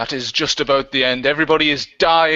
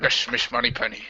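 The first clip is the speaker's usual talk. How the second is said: softer, slurred Scottish secret-agent voice; Sean Connery; 3 semitones lower, 5 dB quieter than usual. Acted. Host's turn at a Scottish accent, mock Connery. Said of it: "accent of Sean Connery".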